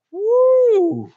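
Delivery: a sudden high, loud yelp of shock; shocked, high-pitched exclamation; high startled whoop. Retold or imitated. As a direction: yelp like you've just been hit by a verbal blast. Reacting to the wife's tirade.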